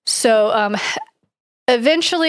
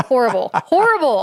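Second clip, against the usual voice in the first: exasperated; 4 semitones higher than usual. Real, not acted. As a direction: groan it out in disbelief. Reacting to joke.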